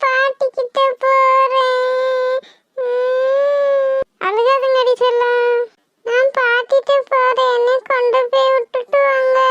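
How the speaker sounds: put-on a small child sobbing for grandma; tearful child. Crying child wants grandma. (அழும் குழந்தைக் குரல்)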